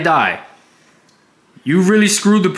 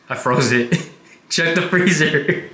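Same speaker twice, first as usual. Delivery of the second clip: giggling through the words; can't keep a straight face; laughing; 2 semitones lower, slower than usual. Real, not acted. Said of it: "Why are you smiling?".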